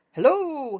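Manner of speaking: high, loud call of Hello; Tigger's high calling Hello. Acted. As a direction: sing out a long, bright Hello from afar. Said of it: "he shouted to the left".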